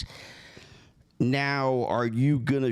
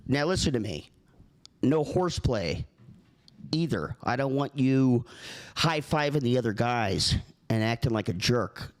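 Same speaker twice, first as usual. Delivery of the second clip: understated heated warning; mock heated; 3 semitones higher than usual. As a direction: lay down the rules like a fussy host. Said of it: "not to get all heated about it".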